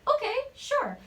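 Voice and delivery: high-pitched retold okay; acted agreement. Actress agreeing to a mystery request, high-pitched acted reply. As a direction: pipe up high, playing back the agreement. Acts out her puzzled agreement.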